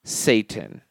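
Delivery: slow, drawn-out mock hail; mock solemn. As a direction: stretch it like a dark ritual chant. Podcast sign-off, drawn out.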